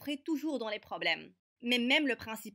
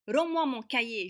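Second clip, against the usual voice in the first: loud, sharp demand; angry demand; 3 semitones higher, 6 dB louder than usual. Acted. Girl demanding her notebook from the bully, loud. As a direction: snap it back at him.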